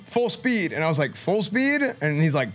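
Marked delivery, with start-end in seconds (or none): 0.1-0.7 curt falling command, high; coach's order. Retold or imitated. Coach orders, player echoes. 1.2-1.8 high rising disbelieving question; incredulous echo. Retold or imitated. Player echoes coach in disbelief.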